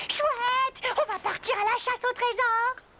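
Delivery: bright, eager cheer; thrilled about a treasure hunt; a burst of delight at the news; excited. Acted. Excited at finding treasure map.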